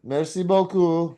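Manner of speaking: Merci beaucoup slow and high; sing-song French. Shown as a demonstration. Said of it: "they sing everything".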